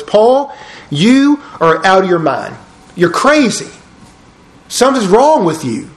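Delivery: loud accusing voice. Acted. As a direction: call him crazy, voice jumping up. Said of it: "Festus said in a loud voice".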